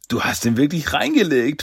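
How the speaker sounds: a touch of admiring delight. Acted. Raphael congratulates his friend on the trick, delighted. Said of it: "freute sich Raphael".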